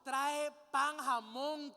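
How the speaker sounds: loud shopping order, item by item; acted order. Preacher playing someone sending men shopping, acted order. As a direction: call out the errand forcefully. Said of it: "No está dando una orden".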